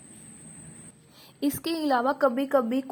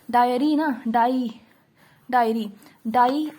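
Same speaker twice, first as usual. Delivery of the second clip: डायरी split and stressed as डाई, louder; slightly louder demo; 4 dB louder, slower than usual. Shown as a demonstration. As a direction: punch डाई within डायरी for the class. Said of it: "ये word है हमारे पास डायरी". (डायरी में डाई पर ज़ोर देकर, थोड़ा ऊँचा)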